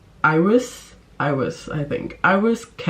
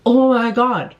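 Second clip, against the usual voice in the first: breathless, much higher gush; giddy excitement; 7 semitones higher, 4 dB louder than usual. Real, not acted. Vlogger swooning over fictional crush, giddy high gush. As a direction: swoon out loud over him.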